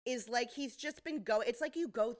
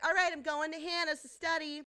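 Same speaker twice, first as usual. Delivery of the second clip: put-on higher, louder girl's breezy announcement; lightly voiced daughter; 8 semitones higher, 5 dB louder than usual. Daughter telling dad she's off to study, lightly voiced. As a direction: lightly play a daughter heading out.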